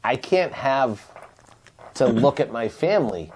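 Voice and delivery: low, earnest pretend plea to a server; solemn, passionate appeal. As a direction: beg for a favour, mostly low-pitched. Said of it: "It was passionate".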